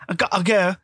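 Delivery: "I'll go" with consonants swallowed, mock British; exaggerated British clipping of "I'll go"; dropped letters. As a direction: say "I'll go" with half its letters left out. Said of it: "British is just leaving out every other letter".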